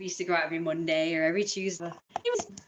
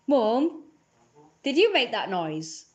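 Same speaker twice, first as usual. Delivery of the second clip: raised voice calling to another room; 3 semitones higher, 4 dB louder, slower than usual. Real, not acted. Calling to mum through the house, raised voice. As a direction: call out to mum elsewhere in the house.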